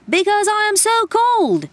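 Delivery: high, loud, pinched gnome shout. Acted. Freezing gnome shouts at the otter, high and loud. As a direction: belt it out in a small creature's voice. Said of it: "shouted the gnome".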